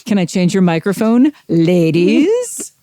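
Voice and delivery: sleazy pickup-line voice, rising at the end; oily smooth seducer. Shown as a demonstration. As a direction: lay on the sleaze. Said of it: "sleazy pickup line by adding the word ladies".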